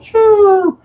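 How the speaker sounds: high, loud whoosh; whooshing jump noise. Retold or imitated. Boy recalling his bike leaving the ramp, loud whoosh. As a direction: launch a high-pitched shooo.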